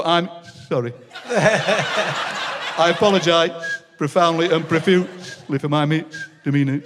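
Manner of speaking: slow, drawn-out comic apology; mock-solemn apology, laughing through it; mock grovelling apology. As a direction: deflate the telling-off with a hammed-up sorry. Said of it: "comedy whistling".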